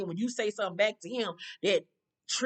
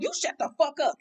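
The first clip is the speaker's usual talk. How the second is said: retold clapback; 6 semitones higher than usual. Exes quarrel, retold.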